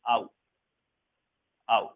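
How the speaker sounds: teacher modelling the ou sound as आउ; demonstrating the ou sound. Shown as a demonstration. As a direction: sound out आउ twice for the class. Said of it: "ओयू sound को हमें आउ करके read करना है".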